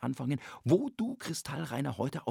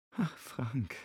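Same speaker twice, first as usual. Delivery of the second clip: medelijdend; 2 semitones lower, 5 dB quieter than usual. Acted. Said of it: "als ob sie Mitleid mit ihm hätte".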